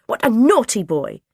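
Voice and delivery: put-on dinner lady telling the boy off, slowly; scolding dinner lady. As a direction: wag the finger with every word.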